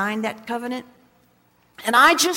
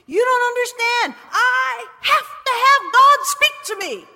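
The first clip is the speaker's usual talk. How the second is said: desperate pleading; 9 semitones higher, 6 dB louder than usual. Retold or imitated. Arguing with mother at Christmas.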